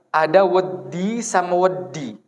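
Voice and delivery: "wedi" said slowly twice, two different d sounds; slow contrast of "wedi" and "wedi"; Javanese minimal pair. Shown as a demonstration. Teacher compares two Javanese words, slow and careful. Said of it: "bahasa Jawa".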